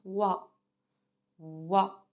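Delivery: "wa" as one drawn-out syllable; teacher slowly sounding out "wa"; pronunciation demo. Shown as a demonstration. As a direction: model O plus I as "wa", then repeat it. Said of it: "Comment je prononce O avec I?".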